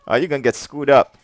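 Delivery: ordinary delivery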